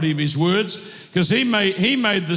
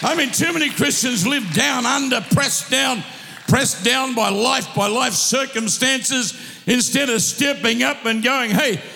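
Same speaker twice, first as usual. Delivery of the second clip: rousing sermon delivery, calls ringing out; fired-up preacher calling his church to rise; full-force preaching; 3 semitones higher than usual. Acted. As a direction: drive it home to the congregation. Preacher exhorting congregation.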